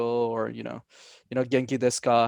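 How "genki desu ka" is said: "Genki desu ka?" in clean Japanese, no English accent; native-sounding Japanese. Shown as a demonstration. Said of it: "Notice how there's no accent at any of those switches".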